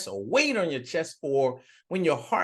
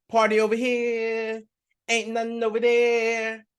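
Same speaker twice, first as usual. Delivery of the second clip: hyped party crowd call, a bit higher; 6 semitones higher than usual. Acted. Hell's partygoers welcome the politician, hyped party shout. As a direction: shout it like a rowdy party host. Hell greets him with party.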